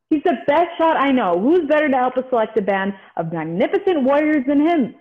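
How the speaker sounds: hurried, rattled-off pitch to recruit; rushing through the argument; rushed line reading. Acted. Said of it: "Slow down, slow down".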